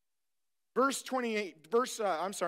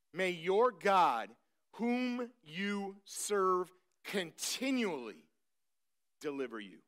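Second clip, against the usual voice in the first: Darius's blessing, slow; 3 semitones lower, 4 dB quieter, slower than usual. Retold or imitated. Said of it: "look what Darius says".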